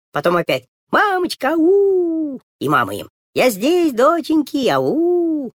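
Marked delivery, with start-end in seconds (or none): 0.9-2.4 high, loud call through the bushes. Acted. Girls call again. 3.3-5.5 calling back. Acted. Mother answers again.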